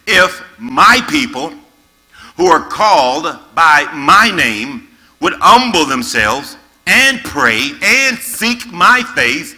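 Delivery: slow, weighty scripture reading. Acted. Preacher reading scripture to young people, slow and solemn. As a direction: read God's words with gravity.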